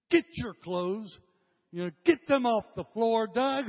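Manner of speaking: a mild mock mom ordering, pitch climbing to the name; lightly voiced mother nagging her son; emphatic mama. Mom telling young Doug to pick up his clothes, mildly emphatic. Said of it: "It's kind of emphatic".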